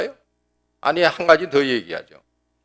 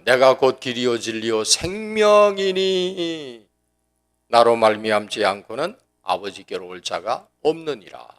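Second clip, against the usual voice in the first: scripture recitation; 3 semitones lower than usual. Retold or imitated. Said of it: "예수께서 가라사대".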